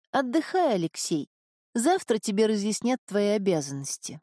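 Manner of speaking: a hint of a resigned young woman. Marin to Aleksei.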